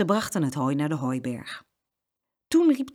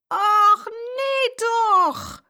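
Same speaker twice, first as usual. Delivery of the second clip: loud, much higher shout of dismay; dismayed cry; 6 dB louder, much slower than usual. Acted. Farmer's wife sees floury Jeroen, loud dismayed cry. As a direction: throw up your hands in shock. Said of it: "riep de boerin".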